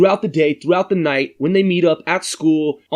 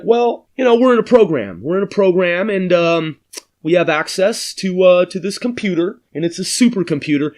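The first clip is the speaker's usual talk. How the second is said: put-on bluffing kids; 2 semitones higher than usual. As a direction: sell the lie like a nervous kid. Kids inventing a story.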